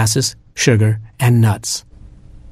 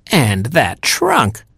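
shriek; 2 semitones higher, much slower than usual. Acted. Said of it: "shrieked the younger stepsister".

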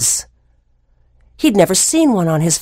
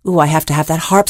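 eager Jack; 4 semitones lower, much faster than usual. Acted. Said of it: "said Jack".

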